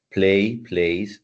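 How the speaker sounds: teacher showing the added s; play vs plays. Shown as a demonstration. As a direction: play then plays, adding only a z sound. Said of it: "Miren la diferencia".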